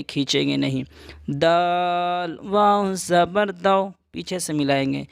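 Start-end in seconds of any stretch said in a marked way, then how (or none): 1.4-3.9 slow letter-by-letter spelling; teacher spells out نا slowly. Shown as a demonstration. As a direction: spell نون زبر نا slowly. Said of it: "جلدی پڑھیں گے".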